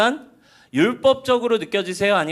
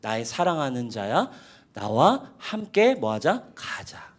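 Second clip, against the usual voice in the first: tender invitation; 5 semitones lower, slower than usual. Retold or imitated. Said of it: "아가서에서 나와요".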